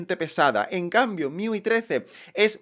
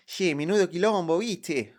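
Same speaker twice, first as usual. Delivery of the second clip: put-on playful Argentine accent, lightly done; mock Argentine accent; slower than usual. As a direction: toss it off like a porteño joking. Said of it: "como lo dirían los argentinos".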